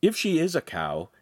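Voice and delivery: mildly amused ribbing; smiling tease. A narrator's reading. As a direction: tease with a smile.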